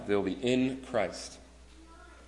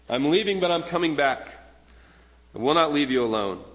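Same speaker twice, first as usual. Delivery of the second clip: emphatic promise; 4 semitones higher, 4 dB louder than usual. Retold or imitated. Jesus quoted, emphatic promise.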